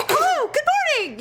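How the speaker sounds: high, bright overdone cheer; fake awake voice. Shown as a demonstration. Showing how you fake being awake on the phone. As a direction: pretend you weren't asleep. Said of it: "make that sound like".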